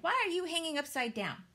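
high, loud and fast bat; a strange bat calls out. A narrator's reading. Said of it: "a loud voice said".

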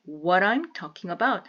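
"what I'm" blended as "wha-raim"; linked speech. Shown as a demonstration. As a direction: say "what I'm talking about" as one joined phrase. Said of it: "좀 연음하시면".

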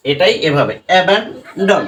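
অ্যাবান্ডন said slowly and deliberately; slow demo word. Shown as a demonstration. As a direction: model অ্যাবান্ডন slowly as a teacher. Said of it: "এখানে অ sound করছে".

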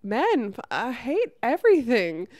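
loud, fed-up venting at the world; mock angry outburst. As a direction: blurt it out like you've had enough of everything. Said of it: "where I'm just like".

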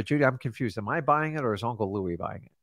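quietly puzzled seller question; mock confused. Shown as a demonstration. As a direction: play dumb, dropping the voice. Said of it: "sometimes I go like this".

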